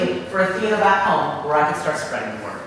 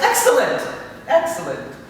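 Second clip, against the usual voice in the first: gloating Satan; 8 semitones higher than usual. Retold or imitated. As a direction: relish the word like a villain. Satan pleased.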